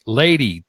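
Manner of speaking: "Lady" set apart as its own firm word; deliberate, standalone "Lady"; stress on "Lady". Real, not acted. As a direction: repeat "Lady" alone for emphasis. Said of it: "and I stress the word lady".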